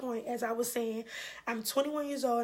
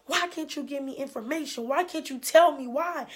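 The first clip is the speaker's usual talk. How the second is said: angry pleading; 3 semitones higher, 6 dB louder than usual. Retold or imitated. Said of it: "getting so angry with her".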